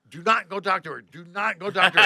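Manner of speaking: acted-out insistent boss; firm warning. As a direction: warn them off word by word. Boss forbids, acted with emphasis.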